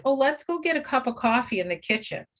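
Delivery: light, breezy, brisk suggestion; casually change the subject; bright, easy offer of coffee; cheerful distraction. Shown as a demonstration. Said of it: "begin to distract".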